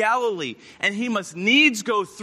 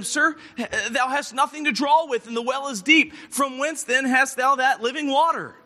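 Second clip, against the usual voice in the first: voicing the woman; 3 semitones higher than usual. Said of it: "The woman saith unto him".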